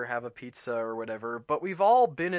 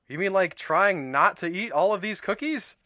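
Toad voice; 6 semitones higher, 7 dB louder than usual. A narrator's reading. Toad asks Frog.

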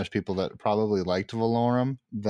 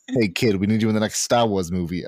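put-on a light Italian mobster accent, a bit louder; quick, slightly louder Italian mobster accent; 3 dB louder, faster than usual. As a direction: toss it off like a lightly voiced Italian-American mob boss. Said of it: "turn him into an Italian mobster".

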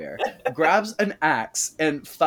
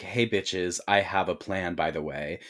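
mock Tom; 7 semitones lower, 6 dB quieter than usual. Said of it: "Tom's like".

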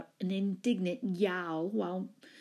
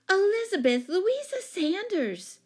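loud, high full-name scolding; appalled, pitched way up; shocked exclamation; 12 semitones higher, 6 dB louder than usual. A narrator's reading. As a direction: cry out the name in dismay. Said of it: "exclaimed Jane".

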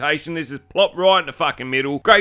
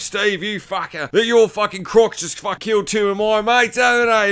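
angry accusation; 6 semitones higher than usual. Retold or imitated. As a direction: accuse him furiously. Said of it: "Steve showed up and goes".

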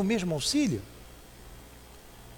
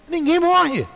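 high, loud emphatic declaration; enfático e alto; 11 semitones higher, 3 dB louder, slower than usual. Real, not acted. Emphatic repetition of the statement. (afirmação alta e enfática)

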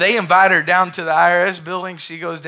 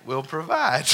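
slow, steady statement of faith; a calm woman assures the IRS agent, slow and steady; calm believer; slower than usual. Retold or imitated. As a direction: say it slowly and simply, unshaken. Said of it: "she says to him".

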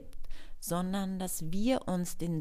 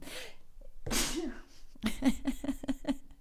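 sneezing; 8 semitones higher than usual. Real, not acted. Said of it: "Ich muss niesen".

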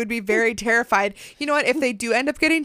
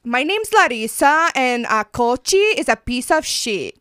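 hammed-up Brazilian accent; playful mock Brazilian introduction; Larissa. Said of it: "your best Brazilian accent".

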